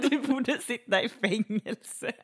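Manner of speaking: high, slow drawn-out imitation; high-pitched mock rant; mock angry neighbour. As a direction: parody his accusation, stretching the words.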